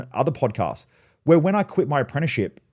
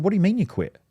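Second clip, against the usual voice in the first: mum in disbelief; 7 semitones higher than usual. Retold or imitated. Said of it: "She said".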